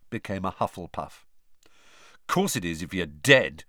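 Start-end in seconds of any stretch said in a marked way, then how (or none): 2.3-3.6 snapping. Acted. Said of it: "snapped Ron".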